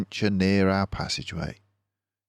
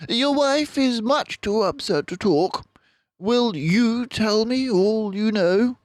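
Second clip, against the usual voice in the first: detective turning to the father, gently; Basil, gentle; 4 dB louder than usual. A narrator's reading. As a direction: ask gently but firmly.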